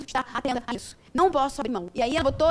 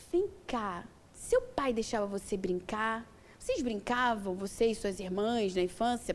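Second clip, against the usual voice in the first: softer, calm question to his wife; quiet husband question; 3 semitones lower, 6 dB quieter, slower than usual. Retold or imitated. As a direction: ask gently, almost under your breath. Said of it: "virou pra mim e fez assim". (pergunta calma e baixa do marido)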